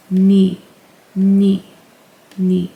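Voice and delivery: "ni" as N plus a long ee; demonstrated syllable. Shown as a demonstration. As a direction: repeat "ni" like "knee", pausing between each. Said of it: "So combined together, it's".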